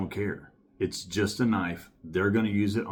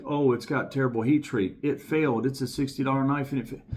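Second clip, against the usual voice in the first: mock complaining buyer; 5 semitones higher than usual. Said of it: "and you're like".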